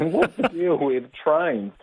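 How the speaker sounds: slow, drawn-out Seinfeld bit; lightly voiced Seinfeld setup. Comedian mimicking Seinfeld into his pocket dictaphone, slow. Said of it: "I'm basically Seinfeld".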